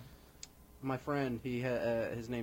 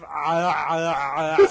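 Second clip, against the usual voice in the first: imitated laugh; 3 semitones higher, 12 dB louder, slower than usual. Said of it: "have you ever listened to his laugh".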